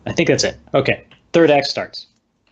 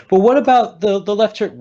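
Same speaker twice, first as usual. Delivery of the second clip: high-pitched, baffled question about the left turn; confused question; 9 semitones higher, 3 dB louder than usual. Retold or imitated. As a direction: ask it like you lost the thread, way up high. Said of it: "he's like".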